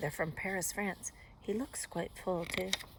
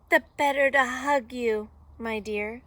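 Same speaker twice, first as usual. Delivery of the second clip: raised, loud disguised wolf; fake Granny voice; 6 semitones higher, 9 dB louder than usual. A narrator's reading. Wolf disguised as Granny, eager put-on voice. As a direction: push it out high and eager.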